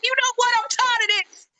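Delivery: high-pitched, playful fed-up complaint; fed-up mock rant. Host imitating their own fiery entrance, mock fed-up. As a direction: act out being sick of it all. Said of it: "I be coming in like".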